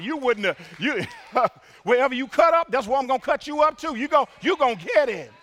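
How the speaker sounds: scolding parent. Pretend. Mock parent threatening a child.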